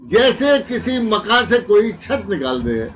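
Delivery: emphatic, measured mushaira declamation; ghazal recitation. Acted. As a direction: recite the couplet out to the hall. Recites ghazal couplet to audience.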